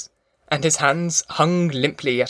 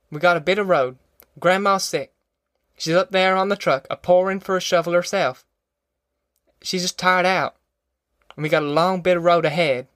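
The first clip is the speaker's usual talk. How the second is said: higher-pitched country mother, earnest; insistent Ma; 5 semitones higher than usual. Acted. Ma warning against busting up the folks, higher-pitched insistence. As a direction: plead firmly to hold them together. Ma argues the road is long.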